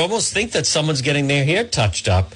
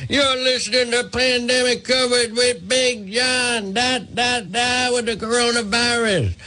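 much higher, hammed-up jingle voice with a whooping shout; Big John voice; 10 semitones higher than usual. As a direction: belt out a silly radio-character singsong, slow and pitched way up. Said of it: "a full hour in the voice of, uh, Big John".

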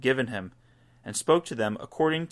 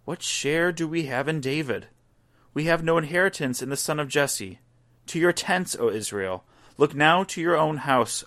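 raised, higher proclaiming call, rising to a shout; crowd crying out; 5 semitones higher than usual. Acted. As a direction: cry it out like a rebellious crowd. People cry out to the king.

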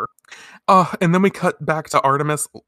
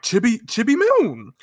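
high mock alarmed call; imitated cry of a name; 10 semitones higher than usual. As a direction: call out to a child, pitched way up. Outers calling to Chibi Moon.

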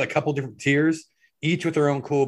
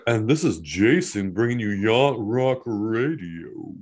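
clenched-jaw yacht club drawl; Yacht Rock voice; 2 semitones lower, slower than usual. Shown as a demonstration. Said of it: "My Yacht Rock voice".

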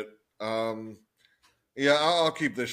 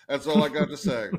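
laughing; 5 dB louder than usual. Real, not acted. Laughs after saying fuck.

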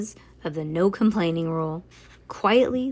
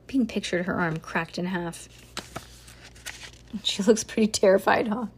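ordinary delivery, nothing marked

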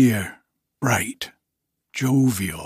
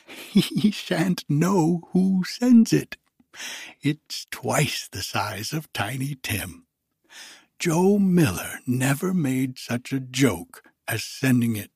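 put-on giddy old Scrooge; 4 semitones higher than usual. Scrooge overjoyed on Christmas morning, high giddy voice. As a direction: bubble over with joy as old Scrooge.

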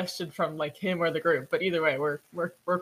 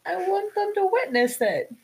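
solemn warrior; 10 semitones higher, 3 dB louder, slower than usual. Acted. Character solemnly insists.

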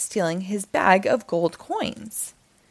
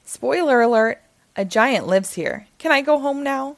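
put-on higher, pleading boy's voice; Jack's protest; 5 semitones higher, 5 dB louder than usual. Jack pleading with the narrator, higher boy voice.

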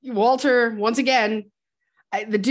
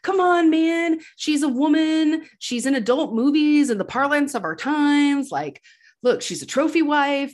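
pleading explanation; 5 semitones higher than usual. Retold or imitated. The Dude explains the supposed kidnapping to Lebowski, mock pleading. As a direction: retell it as an exasperated, higher-voiced appeal. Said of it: "The dude tries to explain".

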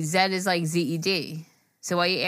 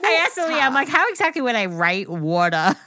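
laughing; 4 semitones higher than usual. Real, not acted. Laughing retelling.

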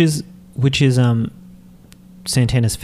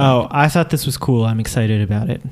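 deadpan enthusiasm; unexcited deadpan. Real, not acted. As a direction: say you're excited without sounding it. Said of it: "You sound really excited".

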